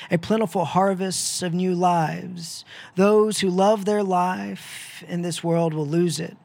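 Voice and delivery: Jesus teaching about the kernel of wheat; solemn, ringing words of Christ; Jesus speaking. Acted. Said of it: "he says from John twelve".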